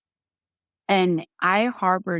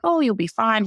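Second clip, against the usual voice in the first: nonchalant; 5 semitones higher than usual. Retold or imitated. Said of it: "very, like, nonchalant".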